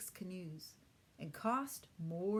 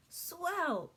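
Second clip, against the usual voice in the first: grinning; 11 semitones higher, 7 dB louder than usual. Acted. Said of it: "Pete grinned".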